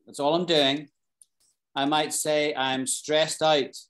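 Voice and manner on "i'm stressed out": slow, deliberate stressed out, stretching out; slow emphatic model phrase. Shown as a demonstration. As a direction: say stressed out slowly, leaning on out. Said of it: "if I wanted to turn the volume up on stress".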